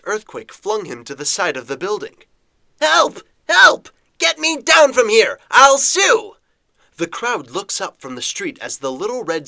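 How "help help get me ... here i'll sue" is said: high, loud panicked cries for help; panicked screaming. Acted. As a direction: scream for help while dangling. Editor dangling from roof screaming.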